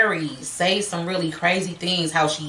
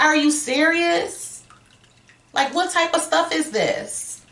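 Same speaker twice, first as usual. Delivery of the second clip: high, drawn-out incredulous outrage; acted indignant disbelief, pitched up; furious; 8 semitones higher than usual. Retelling Judy after slamming the door, furious. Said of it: "Judy is furious".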